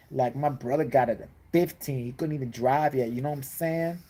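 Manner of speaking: lightly voiced rich-kid street talk; wannabe gangster rapper. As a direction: complain like a pampered kid playing gangster. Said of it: "gonna be a gangster rapper".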